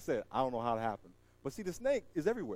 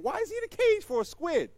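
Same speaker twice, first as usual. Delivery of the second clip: puzzled disbelief; 11 semitones higher than usual. Retold or imitated. His own puzzled thought.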